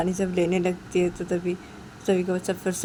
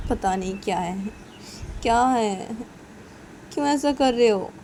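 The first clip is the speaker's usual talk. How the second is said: puzzled mother; 4 semitones higher, 3 dB louder than usual. Acted. Mother puzzled by crying baby.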